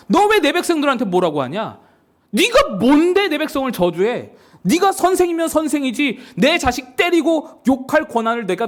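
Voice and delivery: confrontational 하나님. Acted. God confronts Moses for cursing the people, acted angry rebuke. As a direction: take him to task like an outraged parent. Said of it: "모세에게 따지시는 겁니다".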